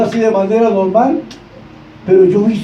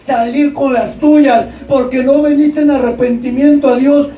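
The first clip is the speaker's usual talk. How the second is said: raised, hammering repeated phrases; fervent preaching; 3 semitones higher than usual. Real, not acted. Preacher voices Natán's rebuke to David, fervent. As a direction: pound out each reproach like a preacher. Preaches at full force as prophet.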